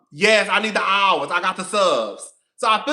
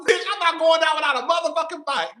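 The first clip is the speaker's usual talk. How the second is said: defiant shout; 6 semitones higher than usual. Real, not acted. Defiant rant about losing her page.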